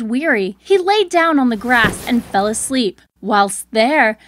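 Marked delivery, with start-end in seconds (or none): none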